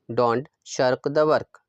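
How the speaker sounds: slow, word by word for the learner; slow repeat. Shown as a demonstration. Teacher repeating for the class, slowly. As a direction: spell it out slowly so students can copy. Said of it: "teacher repeats sentence slowly".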